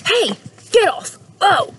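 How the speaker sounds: high, loud startled yelp. Acted. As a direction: yelp in surprise. Man tugged by dog.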